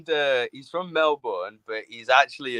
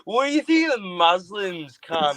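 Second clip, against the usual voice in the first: Melbourne friend's baiting question; 5 semitones higher than usual. Retold or imitated. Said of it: "and he'd go".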